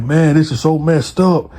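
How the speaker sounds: half-hearted retold holler of an upset man; mild mock hollering. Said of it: "steady just hollering and hooting".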